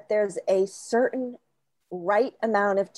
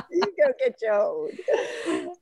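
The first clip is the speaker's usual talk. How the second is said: laughing mock possessive; slower than usual. Playful possessive, slowed and laughing.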